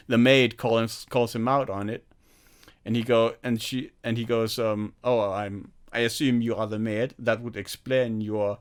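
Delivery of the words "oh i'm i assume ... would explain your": Clouseau voice. Retold or imitated. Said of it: "the speaker's impression is literally what, um, Peter Sellers' Clouseau sounds like".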